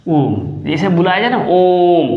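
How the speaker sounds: ओम held out long, like calling someone. Shown as a demonstration. Teacher calling out ओम to show pluta length. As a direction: stretch ओम to triple length. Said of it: "तो ये तीन गुना समय लगता है".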